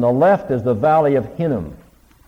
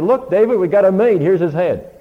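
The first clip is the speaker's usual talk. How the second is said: much higher and louder, eager to please; proud eager messengers; 9 semitones higher, 5 dB louder than usual. Retold or imitated. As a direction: present the head like a trophy, hoping for praise. Servants proudly presenting the head.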